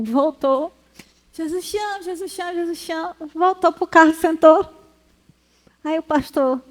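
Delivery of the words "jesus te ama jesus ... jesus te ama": restrained mock shout. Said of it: "mas ele gritou três vezes".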